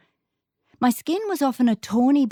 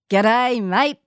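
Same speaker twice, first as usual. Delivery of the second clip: light Aussie twang on g'day mate; a hint of broad Aussie greeting; 3 semitones higher, 4 dB louder than usual. English girl trying out Aussie greeting, mild Aussie twang. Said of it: "with a strong Aussie twang".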